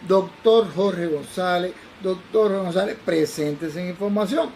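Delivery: slow, pressing loudspeaker page. Retold or imitated. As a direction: repeat the page with a commanding edge. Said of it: "ya yo lo veía que era un poco más imperativo".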